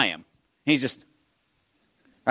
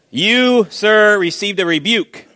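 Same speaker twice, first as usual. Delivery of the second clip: higher, mock-formal pronouncement; mock rebuke; 4 semitones higher, slower than usual. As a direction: playfully reprimand a listener. Mock formal verdict to listener.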